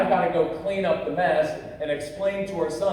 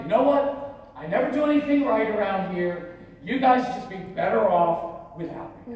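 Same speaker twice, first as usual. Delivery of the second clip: sulky husband; 3 semitones higher than usual. Retold or imitated. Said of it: "and then I did the guy thing".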